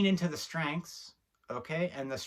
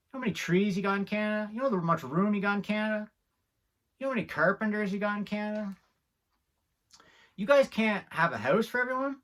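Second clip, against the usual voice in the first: higher and louder, rising outrage; indignant rant; 6 semitones higher, 4 dB louder, faster than usual. Acted. Ranting at the government, mock outrage building. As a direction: hammer each question harder.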